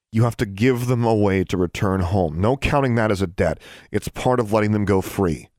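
laying down her conditions; firm demand. Acted. Alexandra firmly bargaining.

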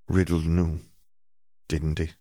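trembling, quavering voice. A narrator's reading. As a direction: let the voice quaver with dread. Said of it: "voice quavering".

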